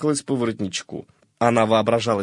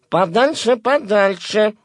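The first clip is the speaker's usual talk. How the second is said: higher and louder, "Подальше, подальше" cried off; shrill "keep away"; 9 semitones higher, 4 dB louder, slower than usual. A narrator's reading. The garter cries to the collar to keep away, higher and louder. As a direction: shoo him off in alarm.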